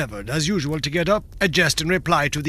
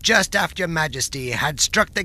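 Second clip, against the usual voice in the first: tranquil. Acted. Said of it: "very tranquilly".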